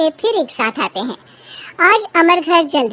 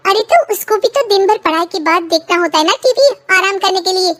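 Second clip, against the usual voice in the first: a touch higher, wife pleading her son's case; lightly voiced wife; 5 semitones higher than usual. Wife to husband, defending son, lightly higher voice. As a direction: ease into a mother's gentle defence.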